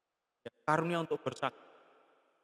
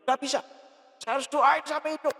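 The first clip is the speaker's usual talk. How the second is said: raised, higher-pitched insistence; insistent refusal; 7 semitones higher, 3 dB louder than usual. Retold or imitated. Man refuses to stop praying for the dead, insistent. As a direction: retell a stubborn refusal, pitched up.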